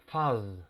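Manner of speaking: "fuzz" said faz with a buzzing z; short vowel, buzz the end; pronouncing fuzz. Shown as a demonstration. Teacher modelling the word fuzz. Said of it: "La palabra fuzz".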